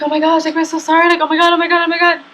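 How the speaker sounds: big gasp, then high, loud condolences; mock shocked sympathy. Onlookers hearing that the stepdad died, imitated shocked high sympathy. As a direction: imitate onlookers gasping and gushing apologies. Others react to the death, acted.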